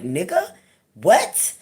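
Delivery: put-on an indignant inner child snapping back; mock outraged kid; little girl's outrage. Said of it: "That little girl me was standing there like".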